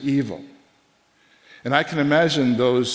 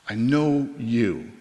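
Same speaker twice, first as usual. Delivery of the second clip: slow, hushed whisper of reassurance; a whispered promise, slow; tender whisper; much slower than usual. Acted. God's tender words quoted.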